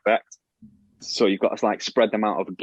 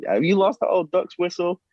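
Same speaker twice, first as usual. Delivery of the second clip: much higher, mock shout; call across the bar; 10 semitones higher than usual. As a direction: call it over from across the room. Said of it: "you hear someone shout over".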